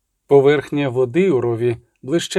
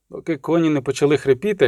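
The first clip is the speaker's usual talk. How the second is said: ordinary delivery, nothing marked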